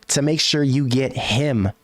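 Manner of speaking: "him" set apart and drawn out; slow down and land firmly on "him"; stress on him. Real, not acted. Host on spending big money for the star, weighty stress on "him". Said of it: "capital H I M".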